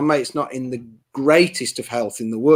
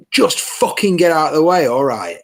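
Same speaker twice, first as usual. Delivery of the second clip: mock police bark, raised pitch at first; retold angry shout; 3 semitones higher, 4 dB louder than usual. Copper ordering fans out of the way, retold angry shout. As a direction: imitate an officer snapping, moderately forceful. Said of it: "no need to scream in our faces".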